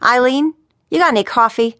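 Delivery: exasperated call for coffee; at rope's end. A narrator's reading. Boss at the end of his rope calls his secretary, exasperated. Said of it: "at the end of his rope".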